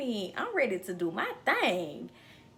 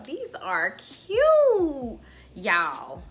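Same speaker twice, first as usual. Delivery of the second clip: gushing; 3 semitones higher, 7 dB louder, much slower than usual. Real, not acted. Gushing over a new wig.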